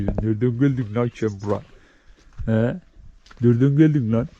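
whispered question to the cat; whispering to a stray cat. Real, not acted. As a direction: hush it so the cat stays. Talking softly to a stray cat.

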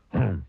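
short grumpy grunt; grouchy "hmm". A narrator's reading. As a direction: grunt in displeasure. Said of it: "grunted Mister Grumpy".

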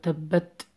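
تبت with a released, breathy final T; tajweed articulation. Shown as a demonstration. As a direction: let the T ending تبت escape audibly. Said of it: "You have to pronounce that like".

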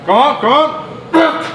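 high, urgent gym encouragement; encouraging shout. Real, not acted. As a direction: drive the lifter through the last rep. Spotting a lifter through the set.

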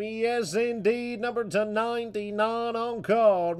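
high, loud hype call; booming arena-style player introduction; excited announcer. Acted. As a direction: trumpet the big pull with stretched words. Card breaker announces big hit.

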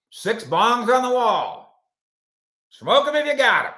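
loud, high playful hype; mock announcement. Host joking about office bongs to a viewer, playful hype. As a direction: call it out like a party host.

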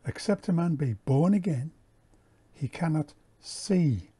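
"born again" stressed, "see" held after a pause; emphasised words. Shown as a demonstration. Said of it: "And I emphasise".

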